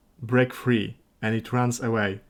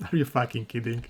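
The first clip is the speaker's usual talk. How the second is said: laughing disbelief; 4 dB quieter, faster than usual. Real, not acted. Disbelief at eight cats quest.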